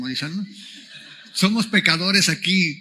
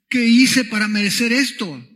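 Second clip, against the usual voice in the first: mock-anguished cry, higher and louder; anguished meme baby; 4 semitones higher, 5 dB louder than usual. Preacher quoting a crying-baby meme to the congregation, mock-anguished. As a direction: plead in mild, hammed-up distress. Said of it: "todo angustiado".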